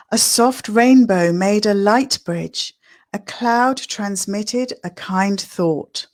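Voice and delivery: gentle, unhurried poem recital; a lightly performed poem reading. Acted. Reads her poem aloud.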